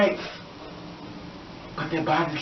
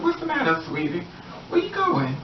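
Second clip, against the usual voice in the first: sweeten it up, much higher; mock sweet-talk; 7 semitones higher than usual. Man pulling her back, high mock coaxing.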